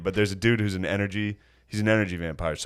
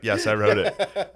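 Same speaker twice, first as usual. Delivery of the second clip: slow, deliberate deadpan admission; measured poker-faced confession; straight-faced; slower than usual. Retold or imitated. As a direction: stay in character, fighting a laugh. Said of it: "I had to stay in character".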